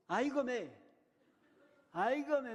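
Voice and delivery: high, loud cry of pain under the cane; yelping to fend off the cane. Retold or imitated. Boy yelping at teacher's cane, loud high cry. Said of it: "엄살이 나왔습니다".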